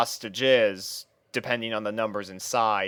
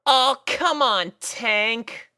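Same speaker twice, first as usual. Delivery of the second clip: high, slow exasperated sigh of a voice; sighing Rainbow Dash; 10 semitones higher, much slower than usual. A narrator's reading. Rainbow Dash sighing at her tortoise, high and weary. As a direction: roll your eyes and sigh it out. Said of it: "she sighed".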